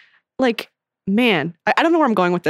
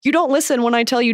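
higher-pitched quoted outburst, easing down; Anne; 4 semitones higher than usual. Retold or imitated. Best friend confronting her steamrolling friend, mock accusation. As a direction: imitate an exasperated best friend, lightly acted. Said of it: "her best friend Anne goes".

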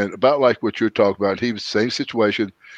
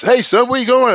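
much higher, louder imitated voice of Seth; pitched-up mimic of the older friend calling out; Seth's voice; 14 semitones higher, 5 dB louder than usual. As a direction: put his eager friendly voice on, pitched up high. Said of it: "he goes".

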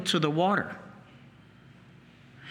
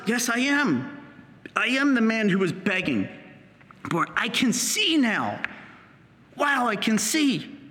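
joyful admission; 3 semitones higher than usual. Acted. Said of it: "he acknowledges".

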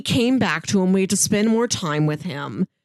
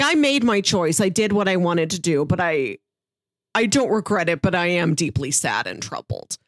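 understated regret, sinking lower; retold sadness; 4 semitones lower than usual. Host voices X five's regret over his choice, understated sadness. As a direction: let it sag into mild, imitated sorrow. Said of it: "he does look sad about it".

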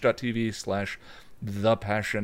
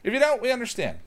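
mock understanding; 13 semitones higher, 4 dB louder, faster than usual. Mock high-pitched reassurance.

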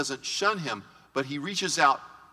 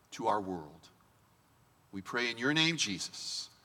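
prayer. Acted. Pastor praying aloud over the congregation, hushed and earnest.

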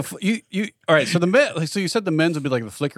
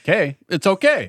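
slow, higher mock-Quebec voice; Quebec accent; 4 semitones higher, slower than usual. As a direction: drawl a joking Quebec accent. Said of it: "from Quebec, so it's like".

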